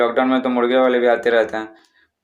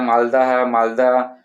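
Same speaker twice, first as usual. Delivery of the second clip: mock mango seller call; slower than usual. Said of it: "जैसे मालदा आम बेचता है तो बोलता है".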